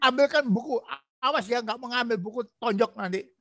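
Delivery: a hint of a bossy husband, pitch jumping up on ambilkan; half-hearted threatening order; mock harsh demand, lightly acted; mock threat. Shown as a demonstration. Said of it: "Nggak boleh begitu, tidak boleh ada ancaman".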